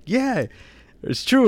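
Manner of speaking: a high hammed-up movie devil; quoted devil. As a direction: pitch it way up for the silly devil.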